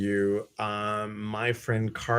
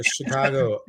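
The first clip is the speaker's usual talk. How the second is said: Chicago accent; 3 semitones higher than usual. Shown as a demonstration. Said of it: "my Chicago accent".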